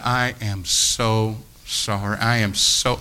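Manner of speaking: slow, low, soft regret; understated heartfelt remorse; sincere apology. Retold or imitated. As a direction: apologise humbly, drawing it out slowly. Retells his apology to the girls.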